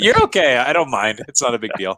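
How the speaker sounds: speaking through a plugged nostril; blocked nose from a tissue; tissue up one nostril. Real, not acted. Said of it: "you'll have to excuse the tissue".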